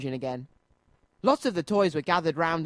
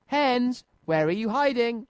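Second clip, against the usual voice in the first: a storybook driver calling to hidden hens, calling out; shouting; 6 semitones higher than usual. A narrator's reading. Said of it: "shouted again".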